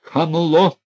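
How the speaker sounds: high, loud furious cry; loud outraged yell; angry shout. A narrator's reading. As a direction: hurl the insult. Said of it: "закричал тогда Князев громче прежнего".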